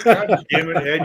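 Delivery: loud sharp voice. Real, not acted. Scolding a loud friend.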